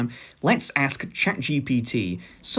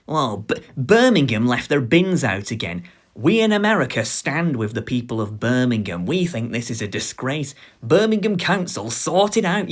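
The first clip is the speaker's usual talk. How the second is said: mock president statement; 4 dB louder than usual. Mock US president on Birmingham bins.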